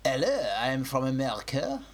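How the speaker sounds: badly faked Newtown accent; mock Newtown accent. Co-host requests a place's accent as a test, mock Newtown accent. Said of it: "do a Newtown accent".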